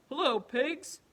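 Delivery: high, loud chirpy duck voice; bright, loud duck hello; cheery duck greeting. Acted. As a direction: greet the cow like an excited little duck.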